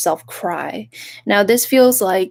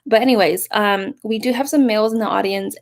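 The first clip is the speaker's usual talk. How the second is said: usual speaking voice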